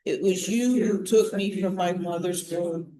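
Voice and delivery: slow, measured psalm reading; meditative prayer. Real, not acted. Leader praying a psalm with the morning group, meditatively. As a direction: pray it aloud deliberately, pausing after each phrase. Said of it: "say it slowly and sort of more meditatively".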